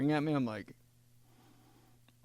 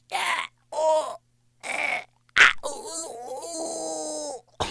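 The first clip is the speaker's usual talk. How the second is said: laughing squeals; much slower than usual. Retold or imitated. Imitating son waking up.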